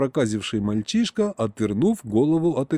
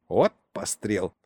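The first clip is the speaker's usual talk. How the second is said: притворный вздох; 4 semitones lower than usual. Acted. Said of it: "притворно вздохнул дед".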